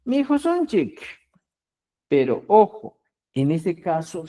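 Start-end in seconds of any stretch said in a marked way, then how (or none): 0.0-1.0 sonchik said as a Quechua word, clear final k; Quechua example word. Shown as a demonstration. Teacher models the Quechua word for the class, clearly. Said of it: "Eliminas la y y la aumentas".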